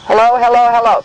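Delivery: through a small megaphone; toy megaphone. Real, not acted. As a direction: megaphone test call. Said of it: "I'm gonna try this megaphone".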